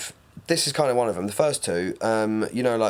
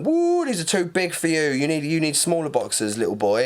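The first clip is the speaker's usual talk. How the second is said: put-on teasing girls; 5 semitones higher than usual.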